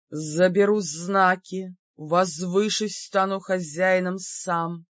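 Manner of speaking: slow, deliberate monster threat; slow demon voice. Acted. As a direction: lay out the plan slowly. Demon states its plan.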